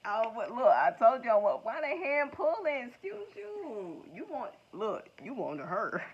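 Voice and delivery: loud, high, slow excited teasing; overjoyed and ribbing the card; too happy. Real, not acted. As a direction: reader hyped over the card, loud and high. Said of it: "I got a little bit too happy on that".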